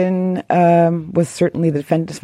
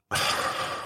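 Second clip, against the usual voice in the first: exasperated sigh; 12 dB quieter than usual. Shown as a demonstration. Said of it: "Can you do the, um, exasperated sigh".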